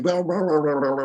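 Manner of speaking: loose, rolling blah-blah noise; imitated flapping lips. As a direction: babble like lips flapping in the wind. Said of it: "their lips are like".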